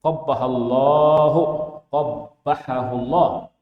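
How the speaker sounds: loud, slow indignant Bedouin curse; a Bedouin's loud, slow, outraged curse. Retold or imitated. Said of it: "dia bilang gini".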